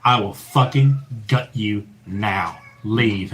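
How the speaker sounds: slow, low, forceful threat. Retold or imitated. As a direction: lean on each word like a slow threat. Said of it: "the same sort of force".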